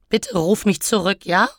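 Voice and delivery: tearful sniffling. Acted. Elektra begging on the mailbox, tearful plea. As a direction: plead tearfully, lifting at the end. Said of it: "schniefte ich zwischen zwei Schluchzern".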